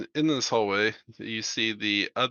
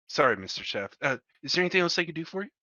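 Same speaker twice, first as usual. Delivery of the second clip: fawning; 6 semitones higher, much faster than usual. Acted. Guard turns back, fawning.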